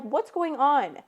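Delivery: disbelieving what's going on; baffled. Retold or imitated. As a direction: ask it stunned and thrown. Baffled at chipper boyfriend.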